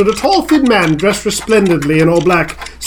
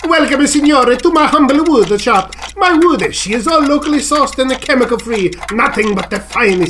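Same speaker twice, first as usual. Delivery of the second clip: put-on higher-pitched Italian-accented host; Italian woodcarver; 5 semitones higher than usual. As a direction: welcome a customer in a thick Italian accent. Voices the woodcarver.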